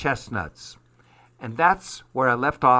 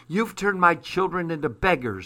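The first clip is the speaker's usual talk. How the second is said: accusing; 5 semitones higher than usual. Acted. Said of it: "she accused".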